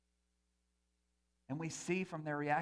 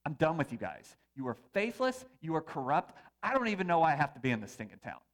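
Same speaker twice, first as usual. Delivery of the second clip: mock angry walkout; 5 dB louder than usual. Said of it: "imagine if I came in here next Sunday and I was like".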